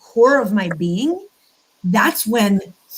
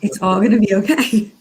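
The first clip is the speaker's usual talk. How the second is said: calming mantra; faster than usual. Shown as a demonstration. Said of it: "And I believe it".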